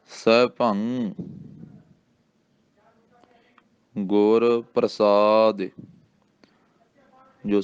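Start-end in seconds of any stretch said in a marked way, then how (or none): 0.1-5.7 ਸੈਭੰ slow with falling tone; ਹੌਲੀ ਪਾਠ; slow recitation. Shown as a demonstration. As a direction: recite slowly, clearly. Recitation for pupils.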